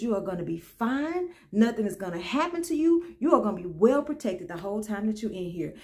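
low, soft retold promise; calm reassurance. Guard promising a woman she will be protected, calm reassurance. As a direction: reassure quietly, as a protector would.

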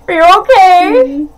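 usual speaking voice

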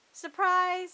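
a high, loud squeak; squeaked surprise. A narrator's reading. Rachel to Mama and Papa over the messy kitchen, squeaking. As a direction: squeak it out, trying to sound cheerful. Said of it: "squeaked Rachel".

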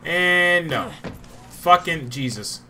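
loud frustrated groan at failure; angry, drawn-out curse; frustrated outburst. Real, not acted. Failed jump frustration.

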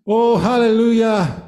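hallelujah lifted and stronger; the congregation gets the second hallelujah, fervent; rising praise. Acted. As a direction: lift it up with fervour. Preacher repeats praise, louder and higher.

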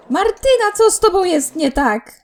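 loud, high exasperation at the game; exasperated outburst. Real, not acted. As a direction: throw up your hands at the Sim. Exasperated at her Sim.

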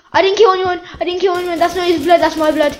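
hammed-up defensive protest; protesting innocence. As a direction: insist playfully on being innocent.

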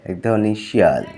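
put-on teacher reading vocabulary to children; spelling lesson for kids.

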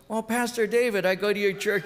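high bright clerk greeting, a notch above his voice; cheerful clerk. Retold or imitated. Clerk greeting her pastor at the airport desk, high and cheery. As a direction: gush like a delighted church member.

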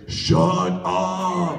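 character voice yelling at them to stop; angry character shout. Retold or imitated. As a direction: bark it at two chatterers.

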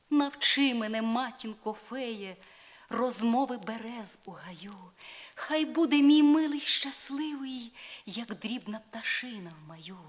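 put-on young woman imploring her godmother; pleading Isolde. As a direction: beg the fairy for beauty with rising hope.

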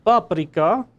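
paprika said the proper native way, not anglicized; authentic paprika accent. Shown as a demonstration. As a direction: say paprika as in its home language, a touch proud. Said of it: "I actually said that with the right accent".

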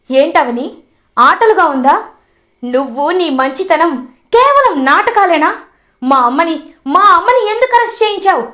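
angry son accusing his wife over his mother's arrest; angry accusation. Acted. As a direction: confront her, furious and hurt. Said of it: "Srikar కోపంగా".

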